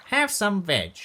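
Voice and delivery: high, loud welcoming call; loud sing-out welcome; hooted greeting. A narrator's reading. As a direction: hoot a big hello. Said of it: "And they hooted".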